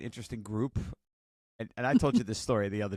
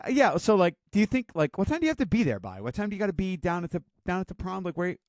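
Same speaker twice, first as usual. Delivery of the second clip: pitched way up, quick and pressing; high eager mom voice; 6 semitones higher than usual. Retold or imitated. Mom pressing her son on prom timing, high and eager. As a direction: keep pushing him with bright questions.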